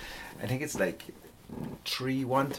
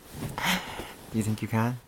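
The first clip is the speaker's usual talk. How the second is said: slow taunt; 4 dB quieter, slower than usual. Acted. Daring his girlfriend to fight, slow teasing taunt. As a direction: draw out the challenge slowly.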